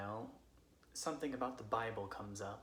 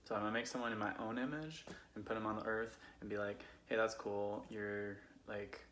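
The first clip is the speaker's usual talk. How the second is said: put-on casual drunk Californian friend telling Bible stories; Californian accent. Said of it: "I'm going to tell them as a Californian would".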